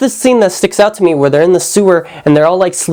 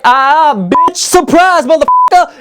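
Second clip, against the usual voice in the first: much higher, taunting gotcha; spring the surprise like a cartoon villain; much higher cackling taunt of a surprise shot; mock gleeful taunt; 10 semitones higher, slower than usual. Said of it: "she's like".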